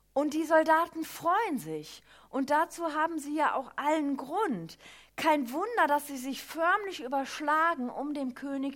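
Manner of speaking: excited. Real, not acted. Describing soldiers' joy.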